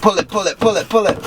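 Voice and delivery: high excited urging. Real, not acted. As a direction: push her on, pull it now. Urging sister to pull.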